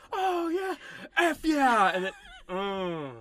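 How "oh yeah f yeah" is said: much higher, gleeful cheer; excited cheer. Retold or imitated. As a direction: cheer at the game. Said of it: "I thought we were gonna be like".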